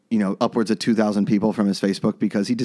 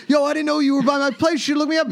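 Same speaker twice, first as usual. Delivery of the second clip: excited text read out. Retold or imitated. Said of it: "I'll text and be like".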